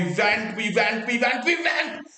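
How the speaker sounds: insistent repeats climbing to a high cry; building excitement. Real, not acted. Fan praising his team for never giving up, building excitement. Fan hammering home the team's persistence.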